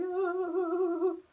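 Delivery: high wavering "hoo-hoo"; a little high stuttering hoot, imitated; imitated hooting noise. Kid heading down gravel driveway, imitated high hoot.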